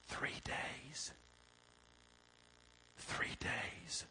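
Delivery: near-whisper, very soft; hushed disbelief. Real, not acted. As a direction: drop to a hush and let it sink in. Hushed punchline after loud build-up.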